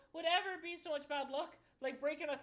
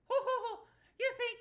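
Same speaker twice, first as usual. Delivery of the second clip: mocking laugh; 6 semitones higher, 5 dB louder, faster than usual. Clover mocks the shooter.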